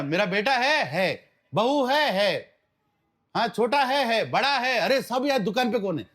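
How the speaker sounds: a dying shopkeeper worried only about his shop; dying miser. Acted. Dying Marwadi checking who is by his bed, anxious.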